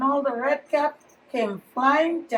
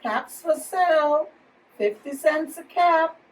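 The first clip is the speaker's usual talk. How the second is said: peddler's call; 3 semitones higher than usual. Acted. Peddler calling out his wares.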